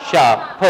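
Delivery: شاپ said with no r, ending on a clear پ; silent r in "sharp". Shown as a demonstration. Teacher models شاپ for students with no r. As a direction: drop the r in شاپ and stress the پ. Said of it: "یہ آر silent ہو جاتا ہے".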